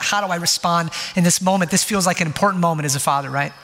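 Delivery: normal talking voice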